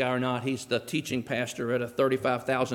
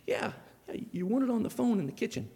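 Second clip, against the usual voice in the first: hushed whisper in church; 6 semitones higher, 5 dB quieter than usual. Retold or imitated. Usher whispering to the choir member, hushed. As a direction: whisper it so the service won't hear.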